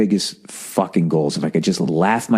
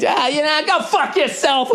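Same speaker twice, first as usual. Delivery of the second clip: mock fed-up retort. Driving off from the driver, high slowed mock insult. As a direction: drag out the insult as a parting shot.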